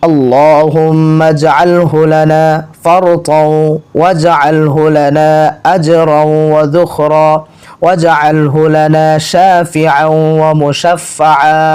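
slow, elongated syllables on a level tone; measured devotional chant; Arabic prayer recitation. Acted. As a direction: recite slowly, stretching each long vowel.

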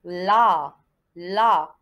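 "La" low and loud, vowel held; syllable demonstration. Shown as a demonstration. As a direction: model "La" as one firm syllable. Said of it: "Allez-y".

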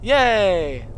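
high cheer of joy; happy cheer. Real, not acted. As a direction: celebrate the win. Celebrating finding helicopter.

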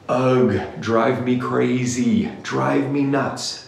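slow, exasperated groan of frustration; frustrated rant. Real, not acted. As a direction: drag it out, fed up. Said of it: "sorry if I'm a little emotional and frustrated".

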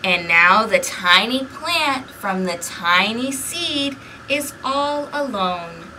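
put-on lively read-aloud for small children; storybook narration. A narrator's reading. Librarian reading a picture book to kids, lively narration. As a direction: read the story to the little ones.

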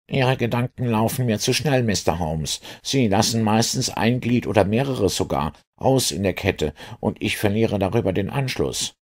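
high-pitched, puzzled inspector voice; bewildered inspector. Acted. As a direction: protest that you cannot follow, voice pitched high. Inspector voiced, losing the thread. (verwirrter Inspektor mit hoher Stimme)

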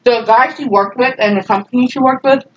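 talking through a mouthful of food; words around a bite, chewing; mouth full. Real, not acted. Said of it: "talking with my mouth full".

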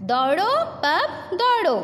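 mock calling out to a puppy; playful urging. Urging the pup to run.

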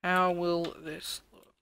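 drawn out, slowly pondering; slow musing. Real, not acted. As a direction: stretch the question out, wondering. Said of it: "How is this going to look?".

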